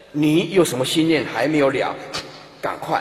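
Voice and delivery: forceful, lightly acted questioning; demonstrated deathbed address. Shown as a demonstration. Helper asking the dying person's last wishes, brisk and forceful. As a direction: press for an answer. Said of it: "对死人要这样讲的".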